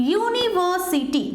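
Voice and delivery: said slowly; slow model word. Shown as a demonstration. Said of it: "দেখো".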